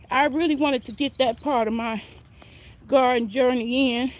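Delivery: out of breath. Real, not acted. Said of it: "excuse my out of breathness".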